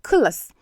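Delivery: "culus" as kuh-luhs, isolated syllables; schwa vowels. Shown as a demonstration. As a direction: demonstrate "culus" with neutral vowels. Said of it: "also take the schwa sound".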